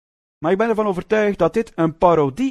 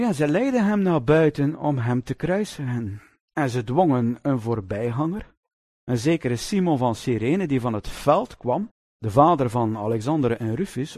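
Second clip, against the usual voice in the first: measured, lower Bible reading voice; scripture reading; 3 semitones lower than usual. Acted. Preacher reading the crucifixion passage to the congregation, solemn.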